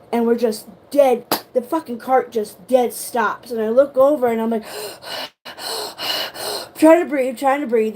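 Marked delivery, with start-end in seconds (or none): 4.7-6.7 high unvoiced gasp, soft; sharp gasp for air. Stuck in the dark tunnel, a sharp frightened gasp. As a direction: suck in air like you're choking. Can't breathe on the ride.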